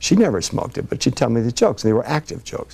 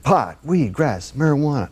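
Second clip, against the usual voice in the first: spelling it out; 5 semitones higher than usual. Retold or imitated. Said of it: "He said".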